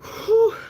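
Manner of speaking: real crying breath out; a shaky whew fighting tears; teary exhale. Real, not acted. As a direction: overcome thanking the viewers, teary whew. Emotional thanks to viewers.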